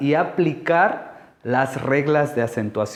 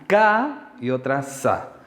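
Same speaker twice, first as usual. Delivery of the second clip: "K" and "sa" each set apart as syllables. Shown as a demonstration. Teacher counting two syllables, "K" and "sa" said apart. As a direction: separate "K" from "sa". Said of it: "tiene dos sílabas".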